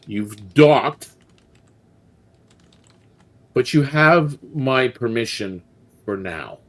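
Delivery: slow, deliberate pirate captain, lightly voiced; voice like crackling fire. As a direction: weigh each word like a threat. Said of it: "her voice like crackling fire".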